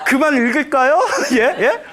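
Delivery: mock-startled rising question; puzzled question. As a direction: ask it in comic bewilderment. Monks' puzzled question, played for laughs.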